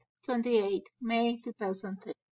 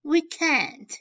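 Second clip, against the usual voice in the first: mild call out; 5 semitones higher, 3 dB louder than usual. Acted. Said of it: "I replied".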